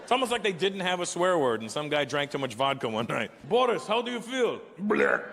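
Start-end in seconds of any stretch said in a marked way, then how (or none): 3.5-4.6 high mock Russian accent question. Drinking buddy asks Boris how he feels, in a mock Russian accent. 4.8-5.2 put-on low loud drunken bleh with a laugh; drunk groan. Boris answers after too much vodka with a low drunken bleh.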